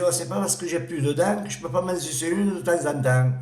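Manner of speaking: high, put-on granny voice; old lady voice. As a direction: play the toothless old granny, high and cheeky. Petite vieille voiced in a joke. (vieille mamie, voix aiguë et espiègle)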